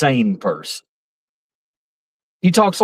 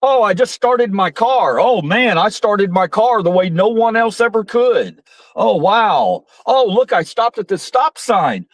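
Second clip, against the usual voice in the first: Trump-style bragging; 6 semitones higher than usual. Retold or imitated. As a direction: gush over your own driving like Trump. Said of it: "talks like that".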